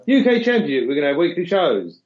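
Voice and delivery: high, loud hyped promo voice; mock WWE announcement. Podcaster mocking WWE's UK promises with a hyped announcer voice. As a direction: oversell it like a corporate hype man. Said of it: "it's like W W E".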